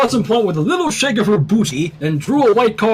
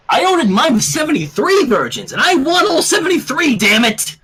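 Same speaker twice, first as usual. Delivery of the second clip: demanding; 8 semitones higher than usual. A narrator's reading. Rainbow demanding her order.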